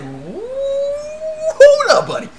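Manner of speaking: very high, loud mock protest; hammed-up alarm. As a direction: whoop it out to stop him. Teller reacting to bold grope attempt.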